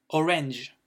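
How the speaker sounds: orange said the English way with an airy A; English pronunciation. Shown as a demonstration. Teacher models English for French learners, English pronunciation of orange. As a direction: say orange as "o-renge", falling tone. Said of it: "on aère un petit peu le A".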